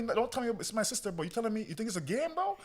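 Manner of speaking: high, loud, stammering rage; raging at the driver over his sister; furious swearing. Retold or imitated. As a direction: tear into the driver, out of control. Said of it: "I started swearing at this guy".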